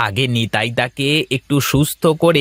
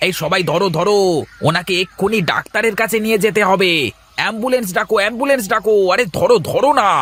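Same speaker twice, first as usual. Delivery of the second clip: urgent alarm; 3 semitones higher, faster than usual. Acted. Crowd finds the injured man, calls for help.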